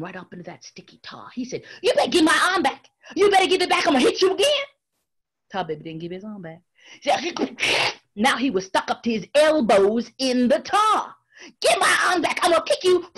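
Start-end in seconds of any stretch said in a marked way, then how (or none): 1.8-13.1 high, loud angry demands; stuck rabbit shouting in rage; mad. Acted. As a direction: demand the arm back, yelling. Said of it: "Brer Rabbit was so mad".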